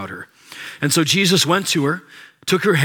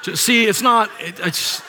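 laughing; 8 semitones higher than usual. Real, not acted. Breaking into laughter mid-impression.

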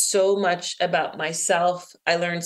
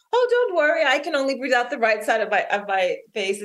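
lightly imitated breezy reassurance, pitched higher; reassuring guide; 4 semitones higher than usual. Guide calming a panicking swimmer, lightly imitated reassurance. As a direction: retell her brushing the worry off in a higher voice. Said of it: "She was like".

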